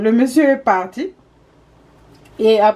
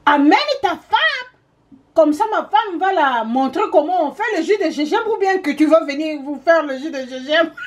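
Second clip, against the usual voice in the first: husband's retort; 5 semitones higher than usual. Retold or imitated. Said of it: "je lui ai coupé en route et j'ai dit".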